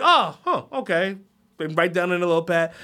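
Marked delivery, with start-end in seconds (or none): 0.0-1.2 mock taken aback. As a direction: react like the answer threw you.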